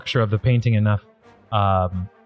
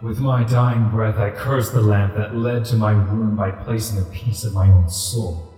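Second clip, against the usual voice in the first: deep rumbling voice. Acted. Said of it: "a deep rumbling voice emanates from this ghostly tiger".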